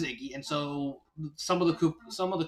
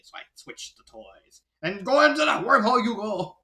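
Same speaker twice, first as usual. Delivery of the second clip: gloating villain; 5 dB louder than usual. Retold or imitated. Kooky gloating at Ludwig.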